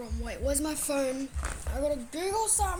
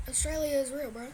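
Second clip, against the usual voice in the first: casual, lightly done Australian accent; Aussie accent; 3 dB quieter than usual. Shown as a demonstration. Australian showing viewers his own accent, casual Aussie delivery. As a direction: say it as a laid-back, half-hearted Aussie. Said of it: "do it in my Aussie accent".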